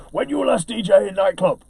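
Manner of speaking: put-on broken English in a light Greek accent; mock Greek accent. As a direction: play the Greek club owner, lightly. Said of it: "that's my very bad accent".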